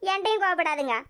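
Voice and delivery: usual speaking voice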